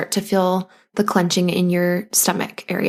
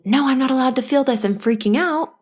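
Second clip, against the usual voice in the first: dictatorial inner voice; 5 semitones higher than usual. Retold or imitated. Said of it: "like dictatorship".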